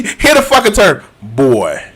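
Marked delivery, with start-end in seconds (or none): 1.2-1.8 lower, lightly voiced stern warrior father; a hint of a stern god scolding his son; imitating Kratos. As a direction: gruffly boss the boy around, in a lightly voiced imitation. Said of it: "He was like".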